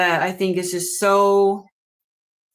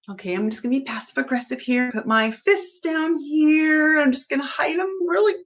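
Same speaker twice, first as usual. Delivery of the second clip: hammed-up sweet, fast, then higher; mock passive aggressive; 5 semitones higher than usual. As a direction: playfully fake calm while hiding her fists. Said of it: "And I'm just like".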